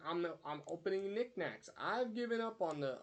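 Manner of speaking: lightly hammed-up cartoon announcement; retold cartoon character. Quoting a character opening knickknacks, lightly hammed-up. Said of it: "He goes".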